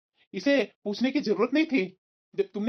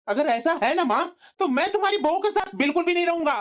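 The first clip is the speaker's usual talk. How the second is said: high, emphatic vow; angry threat; 4 semitones higher than usual. Acted. Son telling mother he will leave wife, angry threat. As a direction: lay down an ultimatum.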